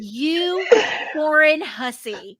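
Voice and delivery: slow, loud hammed-up scolding; mock outraged shout. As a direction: yell it like a fake-offended friend. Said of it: "he was like".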